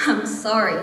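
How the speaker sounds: level apology with a falling end; restrained, falling "I'm sorry"; measured apology. Acted. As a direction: apologise evenly before making the point. Apology before turning political.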